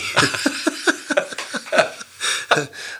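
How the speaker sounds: high, unvoiced burst of laughter. Real, not acted. Guest laughing that the Queen won't come to him. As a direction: laugh at your own joke.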